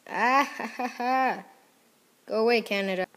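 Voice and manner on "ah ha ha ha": high, deliberate "ah-ha-ha-ha"; staged gamer cackle; mock laugh. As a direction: laugh it out in separate, raised beats. Gloating during the game.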